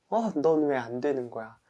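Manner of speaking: acted scolding that jumps up high; self-scolding. Person who broke a resolution berates themselves, scolding. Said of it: "나 자신을 엄청 꾸짖는단 말이에요".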